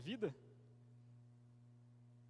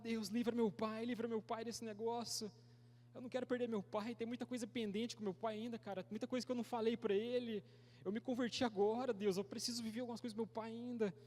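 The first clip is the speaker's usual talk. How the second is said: higher, insistent re-enacted plea to God; pleading prayer; 4 semitones higher than usual. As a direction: beg God, voice held high. Re-enacts his desperate prayer for father. (súplica encenada, em tom mais agudo)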